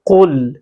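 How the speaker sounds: firm, carefully articulated कुल; proper Qaf. Shown as a demonstration. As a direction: say कुल full, from the back of the throat. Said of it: "अच्छी तरह ये अदा हो".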